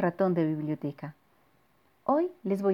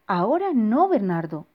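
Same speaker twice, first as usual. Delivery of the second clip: dismissive parent; 2 semitones higher, 6 dB louder than usual. Acted. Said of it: "dijo la mamá de Bernardo".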